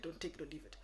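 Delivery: gentle, polite "take it or leave it"; polite version of the line. Shown as a demonstration. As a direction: soften the ultimatum. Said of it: "say it in a polite way".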